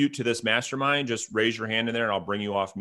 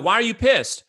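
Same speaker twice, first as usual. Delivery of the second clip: imitating a startled much higher why; retold surprised question; 9 semitones higher, 4 dB louder than usual. Retelling a chat with an upset realtor, surprised and higher. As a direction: replay the shock in a higher voice. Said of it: "I'm like".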